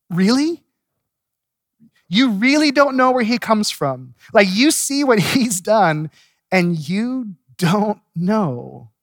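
high, incredulous teasing; mock disbelief. Healed man needling the Pharisees with mock disbelief. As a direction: pretend you can't believe they missed it.

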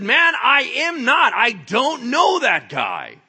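high, loud, slow-stressed oath; emphatic protest at full voice; vehement denial. Acted. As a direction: deny it hard, stretching each word. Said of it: "kept denying it with an oath".

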